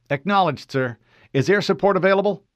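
Fred reporting to an unknown officer, formal. Acted. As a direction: state rank crisply. Fred answers.

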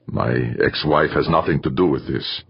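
speaking through gritted teeth. Acted. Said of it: "through gritted teeth".

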